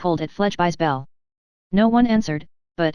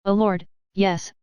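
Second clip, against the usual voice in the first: slow, drawn-out pained moan; slower than usual. Acted. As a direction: moan it out slowly in misery. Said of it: "moaned Fledgeby".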